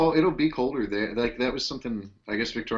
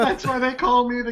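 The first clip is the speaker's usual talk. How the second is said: goofy character voice; 11 semitones higher, 4 dB louder than usual. Acted. Joke voice, cranberry crazy bit.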